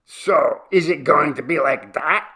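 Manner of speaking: loud, high indignant challenge; hollering. A narrator's reading. Chabo about to fire his pistol, loud holler. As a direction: holler it back at him. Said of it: "Chabo hollered".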